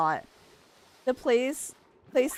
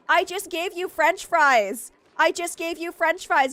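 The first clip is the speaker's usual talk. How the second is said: exasperated scolding; 7 semitones higher, 5 dB louder than usual. Real, not acted. Streamer scolding starving colonists, high and exasperated. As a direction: scold them in disbelief.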